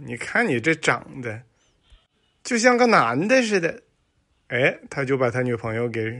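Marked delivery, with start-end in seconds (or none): 0.1-3.8 mocking boyfriend. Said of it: "西门吹雪就跟他女朋友说".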